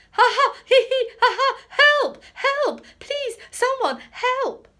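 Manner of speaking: very high, loud laughing cry for help; shrieking helpless laughter; laughing plea for help. Acted. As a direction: gasp help through tickled laughter. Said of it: "agonized laughter".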